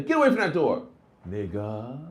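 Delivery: light friendly tease; casual joking. Shown as a demonstration. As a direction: say it like a buddy joke. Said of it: "But if you say".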